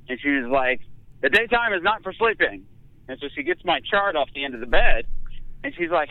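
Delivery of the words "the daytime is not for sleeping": lightly voiced stern nurse, higher; a hint of a lecturing nurse.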